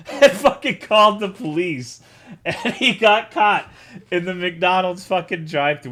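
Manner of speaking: loud, laughing through the words; can't stop laughing while telling it. Real, not acted.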